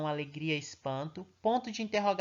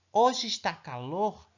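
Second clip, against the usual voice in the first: exclaiming example; 2 semitones higher, 4 dB louder, slower than usual. Shown as a demonstration. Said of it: "está exclamando que está fazendo calor".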